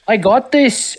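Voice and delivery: quoting Holly. Retold or imitated. Holly voiced in retelling.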